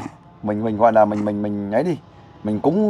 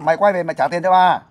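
higher-pitched, more insistent demand; louder-sounding demand; 4 semitones higher than usual. Shown as a demonstration. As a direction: push the call out higher to show how. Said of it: "nói to lên". (đòi nợ giọng cao, thúc ép)

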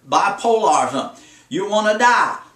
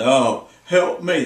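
slow mock moan "help me"; mildly mocking gloomy moan; whiny gloomy person; 4 semitones lower, much slower than usual. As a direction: imitate a self-pitying whiner. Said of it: "They always talk about themselves".

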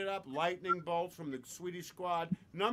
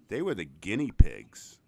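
pig punchline; 11 semitones lower, 12 dB louder than usual. Acted. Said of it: "And the other pig says".

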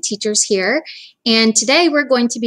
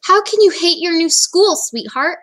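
chuckling dad; 7 semitones higher, 3 dB louder than usual. Acted. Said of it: "Mister Hartwell chuckled".

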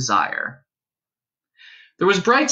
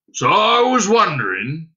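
higher, louder put-on creature voice; small hairy creature, tentative; 6 semitones higher, 5 dB louder than usual. Hairy stranger starting to ask Dunstan for shelter, creature voice. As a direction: ask as a humble furry stranger.

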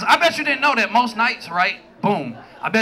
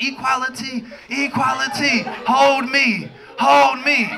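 mock marcher voice; slower than usual. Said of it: "I'm out there with my shit like".

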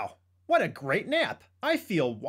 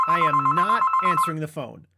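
louder, fed-up shouts at the phone; annoyed refusal; 5 semitones lower, 4 dB louder, faster than usual. Acted. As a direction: tell the ringing phone off.

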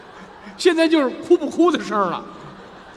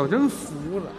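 normal talking voice

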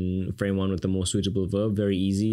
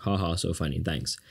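low, soft dry sarcasm; deadpan ha ha; sarcastic laugh; 4 semitones lower, 4 dB quieter than usual. Real, not acted. Teacher mocking the cartoon's joke, dry and low. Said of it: "and that's the joke".

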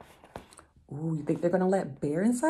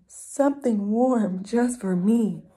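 slow, higher and louder, savouring it; greedy little mouse; 5 semitones higher, 4 dB louder, slower than usual. Acted.

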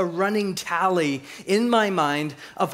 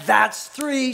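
higher, louder "That's three"; a final warning shout at the dog; hammed-up last count; mock yell; 7 semitones higher, 5 dB louder than usual. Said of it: "She gets out of bed".

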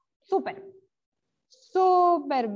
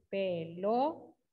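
"Pelota" very slowly, broken into syllables, softer; sílaba por sílaba; 6 semitones lower, 7 dB quieter, much slower than usual. Shown as a demonstration. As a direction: stretch "Pelota" out as pe... lo... ta. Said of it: "lo voy a hacer así". ("Pelota" lento, separando las sílabas)

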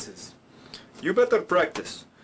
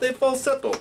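falsetto; 7 semitones higher than usual. Shown as a demonstration. Contrasts buzz with falsetto.

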